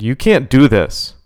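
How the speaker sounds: loud slow command. Acted. Sadie commands.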